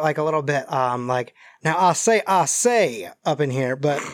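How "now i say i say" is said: blustering cartoon Southern rooster; Foghorn Leghorn. Shown as a demonstration. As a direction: do a hammed-up Southern blowhard. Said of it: "Foghorn Leghorn sound here".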